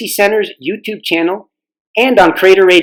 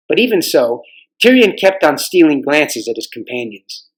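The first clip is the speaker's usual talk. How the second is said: story narration. A narrator's reading.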